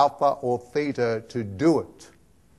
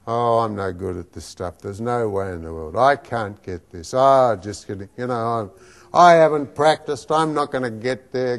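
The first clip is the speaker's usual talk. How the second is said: a lower, glum mutter of self-doubt; negative self-talk; 5 semitones lower than usual. Acted. Coach acting out the inner critic, lower and mildly despondent. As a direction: voice the little sabotaging voice, defeated. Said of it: "have you ever had an experience like this?".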